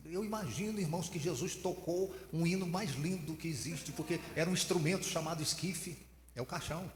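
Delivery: imitating an excited preacher in the pulpit; mock preacher. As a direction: ham up a preacher getting it wrong. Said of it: "Aí ele falou assim".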